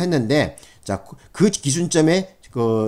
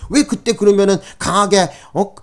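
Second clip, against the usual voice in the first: mock challenge, higher-pitched at first, then easing; reproachful judge; 6 semitones higher than usual. Lecturer imitating a judge questioning a harassment victim, reproachful. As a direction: retell a judge's pointed questioning. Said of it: "하면서 판사 자체가 또 엉뚱한 생각도".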